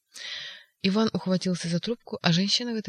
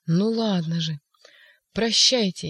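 louder, desperate farewell; defiant shout; 5 dB louder, slower than usual. Acted. Ivan to everyone before jumping, defiant shout.

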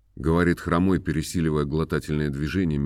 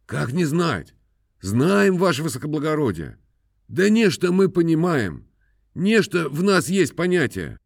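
high, humble peasant voice; simple peasant; 10 semitones higher than usual. A narrator's reading. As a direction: answer the master meekly, pitched up. Khromoy answers the master. (высокий покорный голос мужика)

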